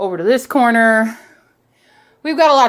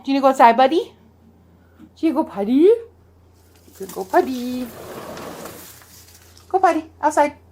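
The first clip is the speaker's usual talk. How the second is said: coaxing dog talk; 4 semitones higher, faster than usual. Real, not acted.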